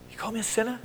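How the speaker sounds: quiet, laughing parody of outrage; mock indignant old parishioner. Preacher parodying an offended elderly parishioner. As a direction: send up the offended churchgoer. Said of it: "they didn't talk like that".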